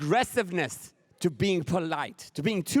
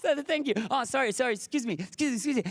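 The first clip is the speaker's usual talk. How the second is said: higher, chirpy polite babble; overly polite Angelenos; 4 semitones higher, faster than usual. Retold or imitated. Comedian imitating polite Angelenos, chirpy and higher. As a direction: gush apologies like a courteous stranger. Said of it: "everybody's so nice and say".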